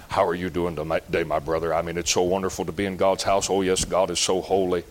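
low, soft, syrupy churchy voice; mock pious deacon. Preacher mocking a hungover deacon greeting the church, low and soft. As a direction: croon it like a pious hypocrite greeting folks.

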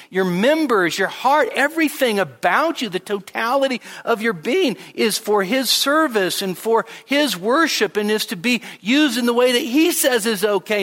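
high, loud preacher's cry pressing each phrase; full-force preaching. Real, not acted. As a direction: preach it out with rising fervor.

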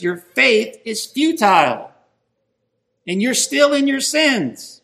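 emphatic pulpit Bible reading; emphatic scripture reading. Acted. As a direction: read the verses out with forceful, preacherly stress. Reads scripture aloud to congregation.

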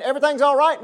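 mocking false prophets. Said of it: "prophets out there saying".

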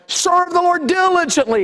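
high, excited exhortation; preaching the verse with fervor; fervent preaching. Real, not acted. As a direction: lift it up with fervor.

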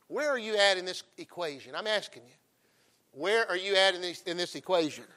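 preacher calling for an answer; loud challenge. Real, not acted. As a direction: call them out from the pulpit.

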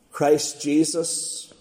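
slow, low, deliberate "Christ Jesus"; clear and emphatic. A narrator's reading. Old man naming his theme, clear and emphatic on "Christ Jesus". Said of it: "he replied in a clear, emphatic voice".

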